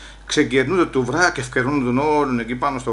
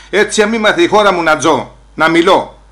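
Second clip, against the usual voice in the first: loud defiant insistence; 2 semitones higher, 6 dB louder than usual. Retold or imitated. Insisting on free speech.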